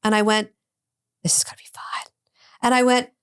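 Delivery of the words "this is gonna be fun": retold thought in a hushed whisper; whispered aside. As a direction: whisper it to yourself.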